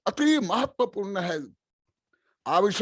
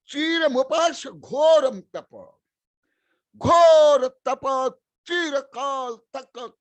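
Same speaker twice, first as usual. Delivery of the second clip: slow, each word pressed, a touch louder; slow and emphatic; 4 semitones higher, 5 dB louder, slower than usual. Shown as a demonstration. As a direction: drag out "घोर तप" with weight for the listeners. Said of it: "धीरे धीरे मैं बोलता हूं, जोर देकर बोलता". (धीरे धीरे, ज़ोर देकर)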